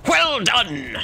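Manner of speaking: excited praise. Real, not acted. Cheering a teammate's kill.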